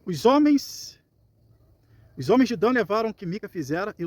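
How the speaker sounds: measured reading aloud of a Bible story; projected opening, then steady scripture narration. Acted. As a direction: read the verse out to a congregation.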